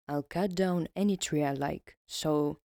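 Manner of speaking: low, defiant big man; lightly voiced hefty woodcutter; gruff woodcutter.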